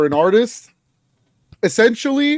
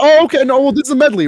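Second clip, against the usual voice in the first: much higher and louder mock reaction; retold sudden realization; 11 semitones higher, 7 dB louder, faster than usual. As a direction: jump up in pitch, talking yourself into it. Retelling reaction to song cut short.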